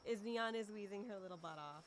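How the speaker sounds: talking through laughter; laughing. Real, not acted. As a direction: laugh while telling it. Laughing at friend wheezing.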